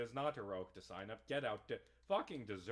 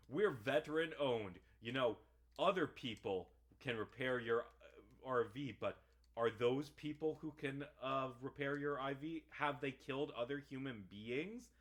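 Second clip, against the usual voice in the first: mock radio ad; 4 semitones higher, 5 dB louder than usual. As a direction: parody of a cheesy veteran-owned repair commercial. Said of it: "It's like".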